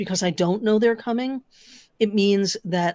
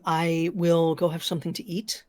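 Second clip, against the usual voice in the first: crunching chips. Real, not acted. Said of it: "I'm sorry about the crunching".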